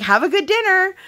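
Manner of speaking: put-on high little kid voice, sweet; imitating toddler. Mother voicing Briar wishing the woman a good dinner, high childlike. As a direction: say it like a polite tiny girl. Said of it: "Briar's like".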